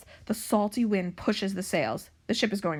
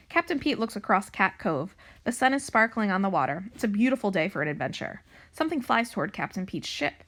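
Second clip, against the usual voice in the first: put-on story reading to children. A narrator's reading. Librarian reading a pirate cat book to young pupils, animated narration. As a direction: read it out clearly for young listeners.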